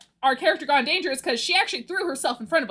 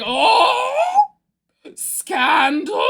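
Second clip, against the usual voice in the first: high, loud theatrical gasp of gossip; hammed-up shock, relishing the drama; mock scandalized; 7 semitones higher, 6 dB louder, much slower than usual. Streamer reacting to her own ball drama, mock scandalized.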